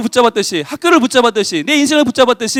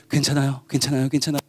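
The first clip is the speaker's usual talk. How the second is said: lower, soft, gentle voice; calm reassurance; 9 semitones lower, 10 dB quieter than usual. Acted. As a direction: soothe a waking patient. Medical staff calming patient.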